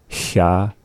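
Sha with a hissing sh. Shown as a demonstration. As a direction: hiss the sh sound. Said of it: "that cat hissing sound first".

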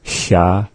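Sha said with the tongue held in the L position; lateral sound. Shown as a demonstration. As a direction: Sha with air blown past the side of the tongue. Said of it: "two Nachalk letters, two sounds".

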